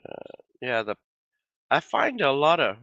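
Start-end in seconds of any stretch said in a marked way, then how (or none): 1.7-2.8 hoarse, voice giving out; losing voice. Real, not acted. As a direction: voice worn and fading. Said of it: "sorry, I'm losing my voice too".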